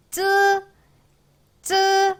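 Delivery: 쯔 high with an 으 vowel, never 찌; pinyin z demo. Shown as a demonstration. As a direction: buzz out 쯔 short and sharp. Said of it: "이거 찌라고 읽으시면 안 돼요".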